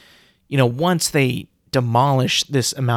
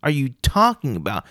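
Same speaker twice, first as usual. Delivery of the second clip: mock incredulous. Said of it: "It's like".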